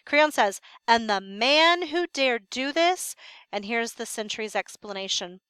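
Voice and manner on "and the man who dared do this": deadly control. Acted. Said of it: "Creon finally speaks with deadly control".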